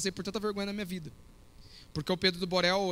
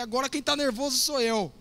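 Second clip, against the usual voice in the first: slightly raised, half-joking angry outburst; mild mock anger; 4 semitones higher than usual. Pastor retelling losing patience at the restaurant, mock angry. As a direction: snap back with playful irritation. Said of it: "deu um tapa no negócio".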